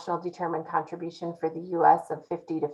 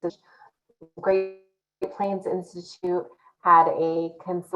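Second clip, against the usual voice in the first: choppy audio breaking up; glitchy robotic call. Real, not acted. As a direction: voice cutting in and out. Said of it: "your audio is breaking up quite a bit".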